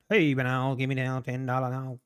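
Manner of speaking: half-hearted auctioneer patter; a quick, shy stab at an auctioneer; auctioneer impression. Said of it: "I should do my auctioneer impression".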